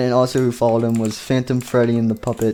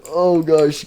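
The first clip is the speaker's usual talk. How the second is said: higher-pitched mock alarm; acted panic; 5 semitones higher than usual. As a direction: play a panicking character. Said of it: "started running and panicking".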